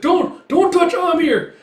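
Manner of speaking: very high, loud, drawn-out plea; slow, straining shout of protest; desperate protective cry. Retold or imitated. Tossed-aside husband protects his wife, desperate cry. Defending Amir from attacker.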